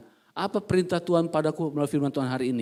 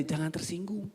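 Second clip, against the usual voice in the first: "Jangan tersinggung" said much softer, as a side remark; aside to neighbour; 2 semitones higher, 8 dB quieter than usual. Shown as a demonstration. Churchgoers to their neighbours, soft aside. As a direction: murmur "Jangan tersinggung" to the person beside you. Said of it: "Bilang orang sebelahnya".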